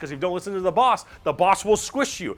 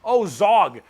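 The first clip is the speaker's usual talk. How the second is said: higher, louder panicked orc grunt; panicky orc; 5 semitones higher, 6 dB louder than usual. Pretend. Grunt telling the boss the mech is out of gas. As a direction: yelp it like a worried grunt. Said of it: "some orc behind you is like".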